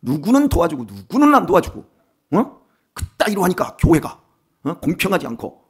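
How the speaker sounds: mock tirade, moderately heated; retold angry outburst. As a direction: act out a caller suddenly losing their temper. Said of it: "성질을 내는 거예요".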